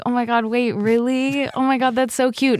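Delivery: high, unconvincing mock coy gushing; fake shyness. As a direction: gush coyly but badly faked. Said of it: "most unconvincing coy impression".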